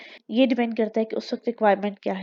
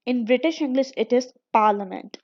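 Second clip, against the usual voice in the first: British pronunciation; much slower than usual. Shown as a demonstration. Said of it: "आर नहीं pronounce हो रहा".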